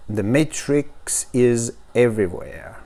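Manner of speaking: slow English with a French accent; halting, sleepy-morning French-accented English. Real, not acted. Unboxer reading the slogan to viewers, morning French accent. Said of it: "c'est mon accent du matin".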